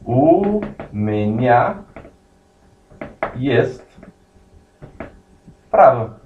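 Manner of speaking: "у меня есть право" drawn out word by word with long pauses; slow teaching read of "у меня есть право"; slow model phrase. Shown as a demonstration. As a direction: spell out "у меня есть право" slowly for the class. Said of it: "e aí você fala".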